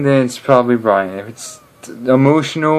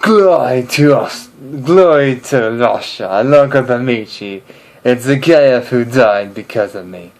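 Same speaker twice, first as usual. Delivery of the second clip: Russian accent. Shown as a demonstration. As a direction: puff up like a proud Russian soldier. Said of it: "a bit more scruffy, a bit more rough".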